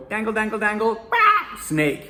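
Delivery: teasing with laughter. Retold or imitated. Coach dangling rubber snake at Jackie, giggly teasing. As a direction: tease the scared one, giggling. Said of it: "I take a rubber snake and I go".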